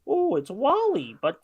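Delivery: lightly voiced snobby kid, slow and drawn out; a hint of a pretentious kid; pretentious child. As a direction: play a child showing off fancy taste, slowly. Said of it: "all those pretentious children".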